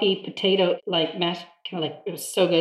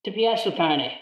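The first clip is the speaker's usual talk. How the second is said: quoting in Italian. Retold or imitated. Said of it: "and he says".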